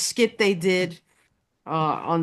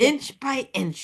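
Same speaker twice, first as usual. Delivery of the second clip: slow menace; 6 semitones higher, slower than usual. Retold or imitated. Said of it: "Slowly I turned".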